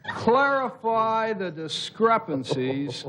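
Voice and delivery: slow, even monotone Agnew; Spiro Agnew monotone. Acted. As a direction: drone it out like Agnew. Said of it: "Spiro Agnew had kind of a monotone voice".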